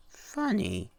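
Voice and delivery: high, sly crone; hag's high mocking remark. A narrator's reading. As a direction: tease him like a wicked hag. Hag mocking before vanishing.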